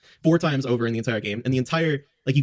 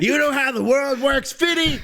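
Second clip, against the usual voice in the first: slow, much higher Texas drawl; Texas oil tycoon; 12 semitones higher than usual. Retold or imitated. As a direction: ham up a Texan oil baron. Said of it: "Texas oil tycoon type voice".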